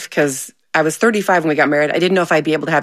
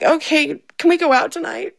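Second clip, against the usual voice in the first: higher, sheepish laughing ask; hopeful, laughing; 9 semitones higher than usual. Retold or imitated. Wife asking husband for a night out, giggling. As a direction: ask sweetly while giggling. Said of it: "And I was like".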